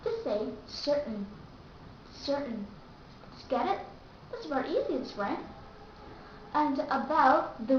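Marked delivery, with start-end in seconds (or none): 0.7-2.7 "certain" with no released T; glottal stop T. Shown as a demonstration. Teacher tells learners to just say it, T dropped. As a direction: cut off the middle of "certain" straight into N. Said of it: "you don't have to pronounce".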